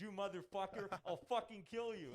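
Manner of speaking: his character cursing on comms, a hammed-up shout; mock angry voice line. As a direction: ham up the character's angry barks. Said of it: "He goes".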